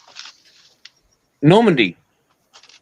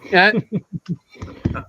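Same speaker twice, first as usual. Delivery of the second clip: calling out; 4 semitones higher than usual. Retold or imitated. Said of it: "that's what we'd say".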